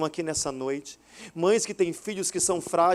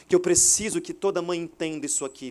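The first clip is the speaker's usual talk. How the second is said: ordinary delivery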